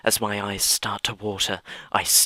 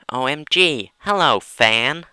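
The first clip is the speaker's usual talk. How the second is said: excited greeting; 6 semitones higher, 8 dB louder than usual. Acted. Riley greeting her fan, loud and high. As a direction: greet the fan with a big squeal.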